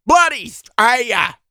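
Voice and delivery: punchy, irritated outburst; exasperated. Acted. Rough applicant repeating his country to interviewer, exasperated. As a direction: hammer the answer home.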